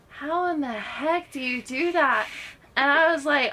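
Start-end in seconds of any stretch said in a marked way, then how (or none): 0.1-2.3 higher-pitched imitation of someone amazed; amazed questioning. Makeup head asking a performer about their sound, amazed. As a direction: act out a baffled, emphatic question.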